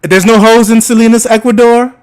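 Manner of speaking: high, teasing sing-song question; mocking. Real, not acted. Teasing the birthday boy about Ecuador, mocking sing-song. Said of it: "Why you talking like that?".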